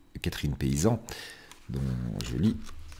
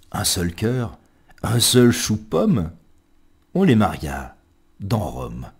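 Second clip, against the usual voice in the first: playful poem recital. Acted. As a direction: declaim it like a comic tale, leaping up on key phrases. Recites a comic poem theatrically. (récitation théâtrale et enjouée, avec envolées aiguës)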